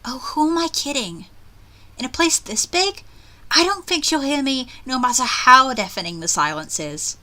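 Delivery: expressive first-person storytelling; acted inner monologue, read aloud; story narration. A narrator's reading. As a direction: narrate as the worried heroine of an eerie tale. Reads heroine's narration aloud.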